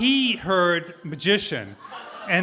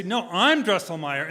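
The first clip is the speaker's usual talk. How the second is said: insistent and louder, pushing back; insisting louder; 3 semitones higher, 4 dB louder than usual. Retold or imitated. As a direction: win the argument by pushing louder. He argues back in quarrel.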